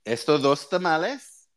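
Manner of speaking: repeating the vendor call. Shown as a demonstration. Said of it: "you gotta talk like a street vendor".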